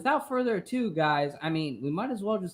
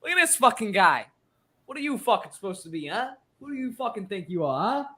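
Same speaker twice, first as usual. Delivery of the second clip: lightly put-on Italian tough-guy accent, mostly his own voice; a hint of a Mobster Italian accent, tossed off for laughs; mock Italian accent; 3 semitones higher than usual. Host teasing co-host Tom with a half-hearted Italian accent. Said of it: "in this Italian accent, quote unquote. It's gonna sound like this".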